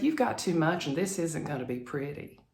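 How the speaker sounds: lightly voiced Southern woman; Southern accent. Cutting-counter woman disapproving to a customer, mild Southern accent. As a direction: imitate a Southern store clerk, lightly. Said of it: "she's gonna be Southern today".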